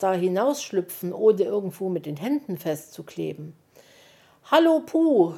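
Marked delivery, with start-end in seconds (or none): 4.5-5.3 hoch und laut hinaufrufen; Ruf von unten. A narrator's reading. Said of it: "rief es da von unten". (Wuschel ruft Puh von unten zu, hoch und laut)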